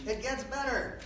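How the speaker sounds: high TV pitchman voice on It gets better; infomercial voice. Shown as a demonstration. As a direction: sell it like a late-night ad host. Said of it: "Infomercial voice".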